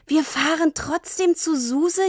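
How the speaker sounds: cheering. Acted. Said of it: "jubelte Tini".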